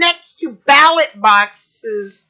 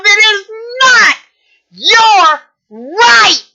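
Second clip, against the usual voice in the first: angry; 4 semitones higher, slower than usual. Real, not acted. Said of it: "really pissed".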